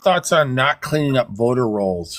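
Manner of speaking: talking with food in mouth; words pushed round a mouthful; mouth full. Real, not acted. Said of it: "do not talk with food in your mouth".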